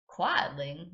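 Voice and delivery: put-on American Southern accent, puzzled question; waitress repeats it with Southern accent. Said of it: "giving her an American southern accent".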